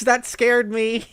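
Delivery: laughing, high after a jump scare; startled laughing. Real, not acted. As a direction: laugh through the fright. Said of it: "jump scared me on stream".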